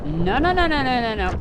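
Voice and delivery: loud rapid string of "no"; frantic protest. Real, not acted. Streamer chasing a fleeing player, loud frantic protest. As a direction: cry out as the enemy gets away. Enemy flees, he protests loudly.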